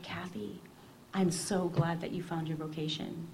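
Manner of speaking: hushed, whispered farewell; soft whisper. Retold or imitated. Reverend Mother saying goodbye to the young visitor, whispered.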